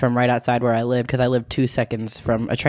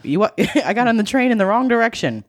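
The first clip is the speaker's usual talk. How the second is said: put-on panicked kid on the phone; 8 semitones higher than usual. Kid calls parents from the wrong train, mock panicked. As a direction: beg your parents for a ride. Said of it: "calling my parents".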